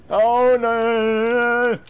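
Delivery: loud, high, drawn-out cry of alarm; real startled yell. Real, not acted. Player jumped by the shark in a game, startled yell. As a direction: yell out in fright as it strikes. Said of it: "yelled for that".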